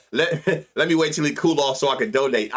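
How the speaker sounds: giggling through a parody of a bettor; mock gambler voice broken by laughter; laughing mock bettor. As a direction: laugh while mocking the timid bettor. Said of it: "I swear, that's how it sound".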